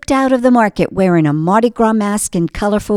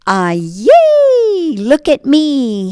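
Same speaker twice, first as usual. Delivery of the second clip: high squeal of joy, then a slow drawn-out look at me; a tiny pastry boy thrilled to be alive; gleeful cry; 6 semitones higher, much slower than usual. Acted. Beignet boy shows himself off, high excited glee. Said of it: "he sang".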